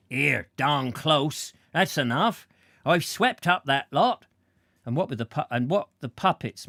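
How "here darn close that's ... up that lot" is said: clown's voice. Acted. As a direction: lightly voice the tired clown. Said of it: "the clown appeared ... and said".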